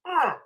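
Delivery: high, retold groan of dismay; disgusted groan. Fan recalling the draft pick, disgusted groan. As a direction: let out a mock "ugh".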